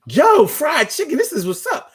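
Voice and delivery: high and laughing, a bit fast; gleeful over his mom's fried chicken; excited laughing quote. Retold or imitated. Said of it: "I was like".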